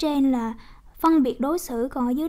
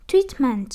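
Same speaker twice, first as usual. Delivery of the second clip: "treatment" with TREAT hit, then falling; stress on first syllable; 4 dB louder than usual. Shown as a demonstration. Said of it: "nhấn âm một".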